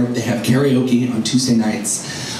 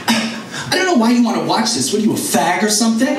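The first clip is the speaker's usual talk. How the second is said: mom's retold jab; 6 semitones higher than usual. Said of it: "my mother says".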